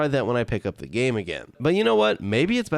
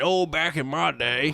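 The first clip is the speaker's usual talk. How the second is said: put-on nostalgic old-timer; 3 semitones higher, slower than usual. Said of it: "sappy dude yapping about nostalgia".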